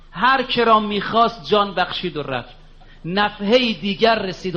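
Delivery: recited with a steady, rhythmic lilt; chanting a mystic couplet to the faithful; poem recitation. Acted. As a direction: declaim the verses to the congregation.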